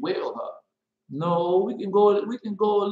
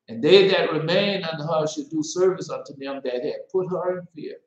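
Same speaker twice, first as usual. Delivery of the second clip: scripture reading. Acted. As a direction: proclaim the verse. Reads scripture aloud.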